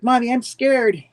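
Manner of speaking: hammed-up frightened kid; mock scared child. Girl tells her mom she is scared in a high mock fright.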